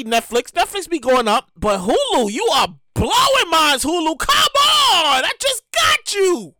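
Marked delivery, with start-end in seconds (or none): 2.3-6.5 exasperated shout. Real, not acted. Pleading with Hulu over prices.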